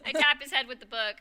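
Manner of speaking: narrating through a laugh. Real, not acted. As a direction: giggle through the line. Laughing while narrating action.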